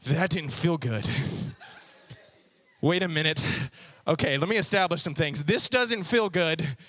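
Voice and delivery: dog thinking aloud. Acted. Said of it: "'Cause he's like".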